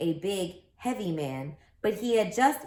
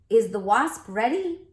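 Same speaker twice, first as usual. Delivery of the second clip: referee calling out; 4 semitones higher, 6 dB louder than usual. Acted. Referee calls out to boats.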